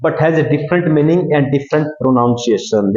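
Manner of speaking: slow, spaced-out reading of the definition; slow dictation. Shown as a demonstration. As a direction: read it slowly for notes. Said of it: "देखिए definition".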